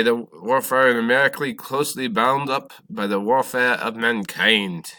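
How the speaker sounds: loud, hammed-up French accent; terrible French accent. History teacher reading Lafayette's words, bad French accent. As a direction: quote grandly in a bad French accent, stretching the ending. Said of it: "that's my terrible French accent".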